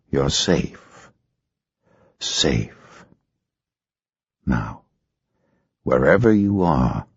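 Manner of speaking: calm her down gently; soothing. Acted.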